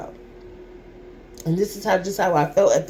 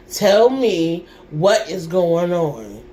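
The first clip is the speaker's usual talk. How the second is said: demanding; slower than usual. Retold or imitated. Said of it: "I was getting so pissed".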